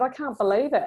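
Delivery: high-pitched retold amazement; gobsmacked. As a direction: relive the disbelief in a high voice. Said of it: "I was just gobsmacked".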